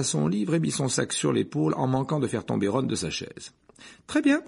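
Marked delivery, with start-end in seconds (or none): 4.1-4.4 very high, loud repeat; angry outburst. A narrator's reading. Hermione repeating herself as she leaves class, angry. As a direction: throw it out defiantly.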